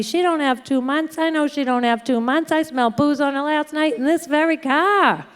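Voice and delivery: imitating an indignant old man complaining; mock yelling. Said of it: "Ernie's yelling at me".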